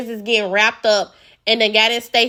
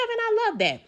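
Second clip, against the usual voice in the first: whisper; 12 semitones higher, 6 dB quieter than usual. Real, not acted. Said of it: "unvoiced whisper".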